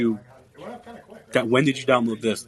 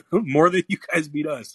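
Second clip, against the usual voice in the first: chuckling through the words; laughing while trying to talk trash back; 4 semitones higher, 5 dB louder than usual. Real, not acted. A caller teases him while he laughs through a comeback. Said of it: "You're laughing".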